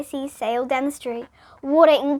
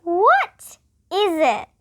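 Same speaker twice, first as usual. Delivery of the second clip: slow, high, wondering question; awestruck; 6 semitones higher, 5 dB louder, much slower than usual. Acted. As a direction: gaze up in amazement.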